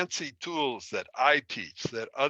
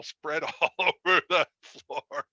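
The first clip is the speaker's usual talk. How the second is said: amused, laughing through the words; 4 semitones higher than usual. Real, not acted. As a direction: break into a laugh as you tell it. Laughing at own childhood story.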